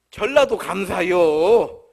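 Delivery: drawn-out, very slow thank-you. Acted. Preacher joking he's grateful to land in Jeolla, slow. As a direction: stretch every syllable of the thanks.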